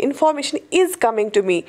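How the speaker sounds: slow, spaced-out correct example; slow model sentence. Shown as a demonstration. Teacher modelling correct English to students, slowly. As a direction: say each word slowly and clearly. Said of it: "हम ये नहीं बोलेंगे".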